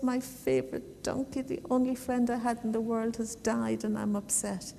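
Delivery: lightly acted sorrow, kept quiet; mildly upset. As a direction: softly play a touch of tearfulness. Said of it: "he gets very upset and starts to cry".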